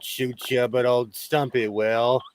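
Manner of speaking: slow Southern cowboy drawl; John Wayne drawl. Pretend. Asked for a Southern accent, a slow John Wayne drawl. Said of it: "It's more John Wayne".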